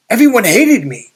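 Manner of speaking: high, loud retold objection to his friend; incredulous protest. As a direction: throw it back at him in disbelief.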